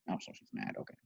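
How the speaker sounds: low soft comment; quiet aside. Real, not acted. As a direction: murmur to yourself. Reader aside.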